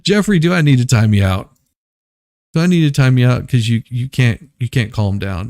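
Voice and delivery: loud, stern scolding of a misbehaving man; mock stern scolding. Mock cop scolding a ranting man, loud and stern. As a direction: threaten a time-out like a fed-up cop.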